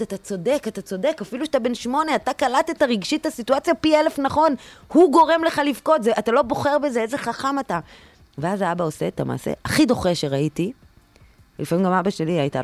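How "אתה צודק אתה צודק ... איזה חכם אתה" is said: put-on reassuring the child. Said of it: "אני רוצה להגיד לילד".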